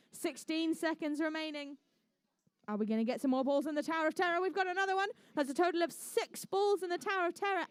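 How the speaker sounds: brisk, upbeat match commentary; live play-by-play. Acted. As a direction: call every ball into the tower.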